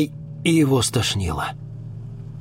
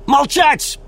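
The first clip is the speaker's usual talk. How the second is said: high loud barked order; woman barks at the mustached man; 6 dB louder than usual. Acted. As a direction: bark him silent. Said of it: "рявкнула женщина".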